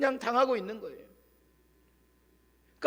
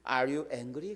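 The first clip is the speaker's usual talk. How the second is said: quiet question; 6 semitones lower, 6 dB quieter, much slower than usual. Retold or imitated. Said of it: "그에게 가서 조용히 묻습니다".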